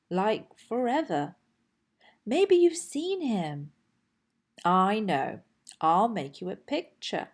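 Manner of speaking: put-on eager, chatty kid-dinosaur voice; lightly voiced young dinosaur, pleading; Dexter the little dinosaur. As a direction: play a lonely little T. rex looking for his friend.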